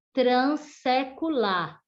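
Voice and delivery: "transsecular" said slowly with a hissed S; trans com som de S. Shown as a demonstration. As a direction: keep the S voiceless in "transsecular", no Z. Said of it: "a pronúncia será S". ("transsecular" devagar, com som de S)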